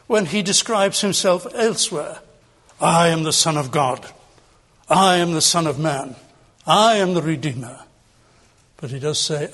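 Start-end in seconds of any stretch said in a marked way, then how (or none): 2.8-7.8 forcible declaration. Retold or imitated. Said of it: "You don't hear of him speaking as forcibly".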